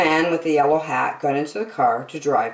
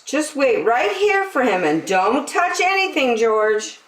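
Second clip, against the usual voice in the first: higher, kindly nurse voice; nurse's voice; 8 semitones higher than usual. A narrator's reading. Nurse telling George his friend is coming, kindly. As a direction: tell him gently he's leaving. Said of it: "said the nurse".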